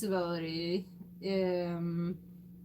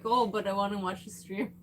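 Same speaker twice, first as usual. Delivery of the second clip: laughing; 3 semitones lower than usual. Retold or imitated. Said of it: "But he's li-, like".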